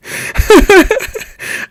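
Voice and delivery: bright real giggle; high laugh. Real, not acted. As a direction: burst into a high laugh at the memory. Laughing at her own story.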